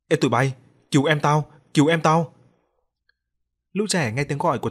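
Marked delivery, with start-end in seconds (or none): 0.1-1.5 put-on loud, frightened call to the other kids; panicked shout for help. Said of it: "Thằng Lành hoảng gọi lớn". 1.7-2.3 louder, more desperate repeat of the plea; panicked shout for help, building. Acted. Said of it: "Thằng Lành hoảng gọi lớn".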